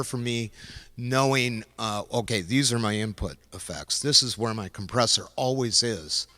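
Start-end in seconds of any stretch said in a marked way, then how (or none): 2.4-6.3 breathless, running out of air; out of breath. Real, not acted. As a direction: talk while short of breath. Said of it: "which I'm almost out of breath".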